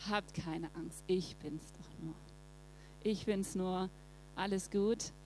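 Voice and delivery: calm the frightened disciples softly; Jesus gently reassuring his scared disciples; gentle reassurance. Retold or imitated.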